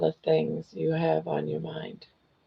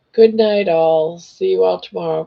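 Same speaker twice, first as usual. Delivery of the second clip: loud, cheerful goodbye to everyone; calling out goodnight; 6 dB louder than usual. Real, not acted. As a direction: call out your goodnights to the whole chat. Signing off to the chat.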